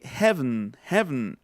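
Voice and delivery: 'heaven' as HEV-n, twice; dropped final vowel. Shown as a demonstration. Teacher giving an example, 'heaven' with no final vowel. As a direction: swallow the last e of 'heaven'. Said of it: "como si no existiera la última E".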